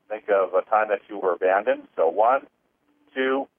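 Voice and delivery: talking through a yawn. Real, not acted. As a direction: speak while yawning. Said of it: "and I'm yawning again".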